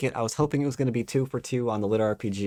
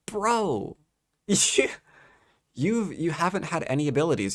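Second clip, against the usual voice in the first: high, drawn-out incredulous bro; exasperated reader calling out the nonsense; exasperated disbelief; 7 semitones higher, slower than usual. Real, not acted. Exasperated reply to the book.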